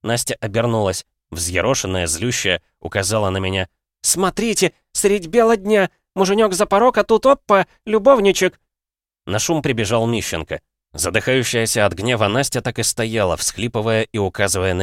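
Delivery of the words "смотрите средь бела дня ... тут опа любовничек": высоко и громко, на публику; созывает соседей, обвиняя; скандальный крик. A narrator's reading. Настя кричит на весь коридор. (громкий скандальный крик)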